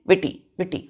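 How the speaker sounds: विटी said with a short first vowel, like "witty"; विटी as in English witty, not वीटी; short i pronunciation. Shown as a demonstration. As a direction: say विटी with a short i and a crisp double t. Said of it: "तो क्या pronounce करेंगे?".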